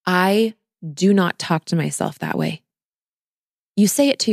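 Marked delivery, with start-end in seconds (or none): 0.0-2.6 steady, even, sure of yourself; calm firm self-statement. Shown as a demonstration. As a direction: state the boundary calmly, no drama. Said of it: "So it sounds more like this".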